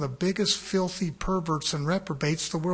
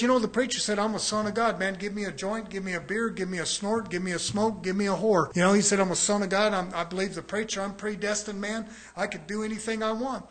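lightly voiced careless man, mocking and quicker at first; mocking a careless believer. Preacher mocks a churchgoer who twists his words, with a light mocking voice. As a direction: poke fun at a man who thinks he can do anything. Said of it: "And I start speaking like this".

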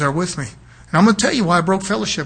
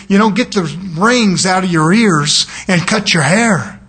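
louder, slow, emphatic telling-off; blunt retold advice; 5 dB louder, slower than usual. Preacher tells the man asking about dope, blunt advice. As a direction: spell it out slowly and forcefully.

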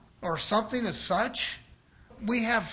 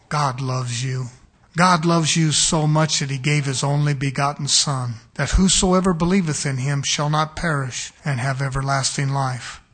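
devil quoting scripture; 5 semitones lower, 6 dB louder than usual. Shown as a demonstration. Preacher showing the devil speaking God's Word, low and smooth. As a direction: lower and croon the scripture like a deceiver. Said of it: "this is what the devil speaks like".

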